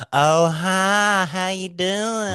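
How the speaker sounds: high, drawn-out Southern gay voice. Retold or imitated. Mimicking guys he met, high Southern gay voice. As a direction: gush it in a hammed-up camp Southern accent. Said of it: "a Southern accent mixed with gay voice".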